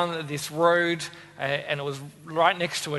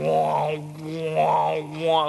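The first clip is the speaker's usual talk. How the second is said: lightsaber hum; 4 semitones lower, much slower than usual. Retold or imitated. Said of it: "it sounded like one".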